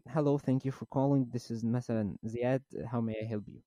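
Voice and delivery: slow, courteous call-centre greeting; slow polite call agent. Retold or imitated. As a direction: answer like a patient agent. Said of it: "كنت داخل عليها الأول".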